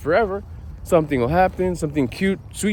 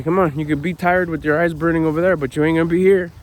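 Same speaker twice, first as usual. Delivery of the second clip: pep talk; 4 dB louder than usual. Shown as a demonstration. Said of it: "That's my self-talk in the morning".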